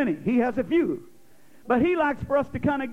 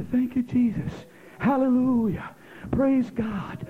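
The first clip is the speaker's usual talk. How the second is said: worshipful murmur; slower than usual. Shown as a demonstration. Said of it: "I'll kinda do like this".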